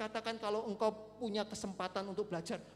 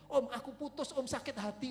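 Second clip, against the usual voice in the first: higher-pitched retold teen complaint; imitating heartbroken teens; 4 semitones higher, 4 dB louder than usual. High-schooler tells the preacher of a breakup, imitated complaint. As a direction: lightly mimic a lovesick high-schooler. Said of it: "anak-anak S M A ngomong sama saya".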